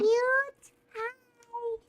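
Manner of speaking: very high squeaky little mouse; high mouse squeak; cute mouse voice. Shown as a demonstration. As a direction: squeak it like a tiny cartoon mouse. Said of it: "you make a good mouse".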